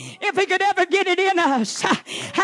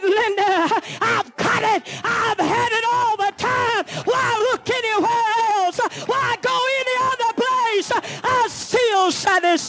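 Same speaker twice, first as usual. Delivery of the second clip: rising, ringing shout of joy, climbing higher as it goes; joyful preaching cry; 4 semitones higher than usual. Retold or imitated. Preacher voicing her own conversion to the congregation, rising joyful shout. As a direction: cry out the joy of being satisfied at last. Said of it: "he said".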